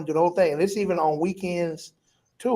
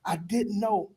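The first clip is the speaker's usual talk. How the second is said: tearful apology; 6 dB quieter than usual. Retold or imitated. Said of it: "and I'm just crying".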